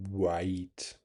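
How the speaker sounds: quiet, low "White" with rounded lips; demo of white. Shown as a demonstration. Streamer to chat, demonstrating "White" with lip motion. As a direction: show "White" with a round-lipped w. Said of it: "really this motion".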